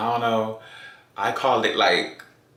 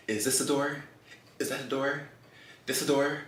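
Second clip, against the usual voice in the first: frantic; 4 semitones higher, 7 dB quieter, faster than usual. Retold or imitated. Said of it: "frantic and stuff".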